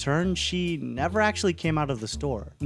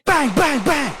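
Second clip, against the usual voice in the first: mock gunshots; 7 semitones higher, 4 dB louder than usual.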